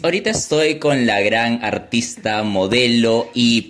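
mock showbiz presenter, drawing out the name; TV host intro. Host introduces his guest on a pretend show, showbiz announcer. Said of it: "yo te presento".

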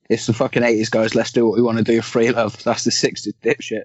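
loud. Acted. Reciting a loud movie quote.

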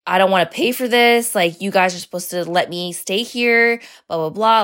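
half-hearted mock yell; retold angry swearing. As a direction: imitate him going off at hotel staff. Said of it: "swearing at them".

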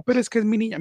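mock mother begging for her child; a hint of a pleading mother. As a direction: whine it like the kid's mother.

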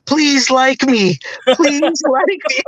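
high, drawn-out mock begging; slow, high-pitched teasing imitation; mocking plea. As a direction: plead pathetically to be liked, hammed up. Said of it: "would always make fun of me".

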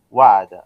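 وعد with the و held long; وعد said with a long drawn و; drawn-out long vowel. Shown as a demonstration. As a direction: stretch the و in وعد. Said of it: "الوقت الذي تنطق فيه الواو".

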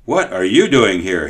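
a touch of a servant's rough challenge; mildly gruff, demand it; rough question. Acted. Servant roughly questions the boy at kitchen, mildly gruff. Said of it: "he asked roughly".

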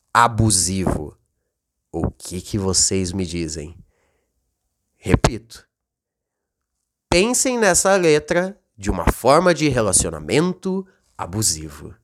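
dramatic reveal. Acted. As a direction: drop the voice for the big reveal. Revelação dramática do sentido. (revelação dramática em voz grave)

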